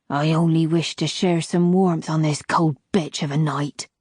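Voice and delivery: put-on a sly old woman asking to share the fire; old crone. Old crone voiced in story.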